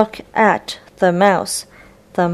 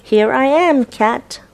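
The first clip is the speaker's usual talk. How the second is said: mouse voice; 5 semitones higher than usual. Acted. Mouse character voiced in story.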